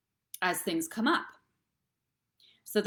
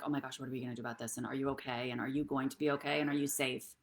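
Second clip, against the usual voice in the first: rushed, softer mock panic; a hint of a panicking parent, fast and hushed; fearful parent; 4 semitones lower, 4 dB quieter, faster than usual. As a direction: rattle off worried questions. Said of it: "your fear coming in and being like".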